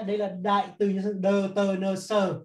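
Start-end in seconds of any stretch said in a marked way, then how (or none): 1.2-2.4 slow letter-by-letter abbreviation; teacher dictating the abbreviation slowly; spelled out slowly. Shown as a demonstration. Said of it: "tôi viết tắt".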